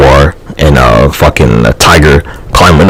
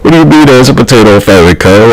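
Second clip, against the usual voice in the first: mock incredulous; 7 semitones higher than usual. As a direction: blurt it out in fake amazement. Mocking the famine, louder.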